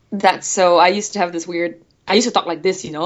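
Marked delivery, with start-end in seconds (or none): 2.1-3.0 light Singapore accent. Shown as a demonstration. Showing how she talked as a child, Singapore accent. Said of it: "like this weird Singapore accent".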